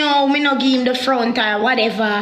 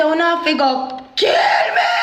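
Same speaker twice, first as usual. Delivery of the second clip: crying shout; a tearful cry; retold bawling out; 3 semitones higher than usual. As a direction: yell it like you're begging for your life. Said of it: "me just ball out and say".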